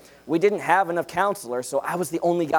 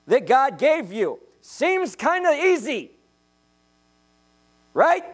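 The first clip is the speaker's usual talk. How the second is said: high-pitched, insistent preaching; emphatic preaching; 7 semitones higher than usual. Acted. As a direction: press the point home from the pulpit.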